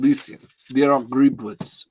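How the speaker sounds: put-on slipping into a Russian accent; accidental mock-Russian voice. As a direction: let the accent drift Russian. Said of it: "now I'm doing a Russian".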